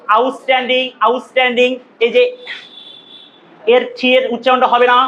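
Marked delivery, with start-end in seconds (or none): 0.1-1.8 আউটস্ট্যান্ডিং as "aus-tanding", unaspirated t; correct pronunciation. Shown as a demonstration. Teacher drilling the class on the word, correct pronunciation. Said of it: "উচ্চারণটা কি হবে?".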